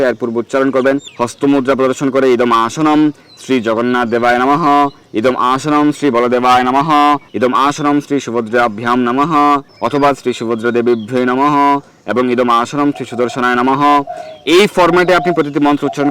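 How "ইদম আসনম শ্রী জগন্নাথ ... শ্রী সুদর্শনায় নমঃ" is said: level, measured Sanskrit mantra intonation; mantra recitation. Shown as a demonstration. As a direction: recite the ritual formula, holding the final syllables. (মন্ত্র পাঠের সুরে)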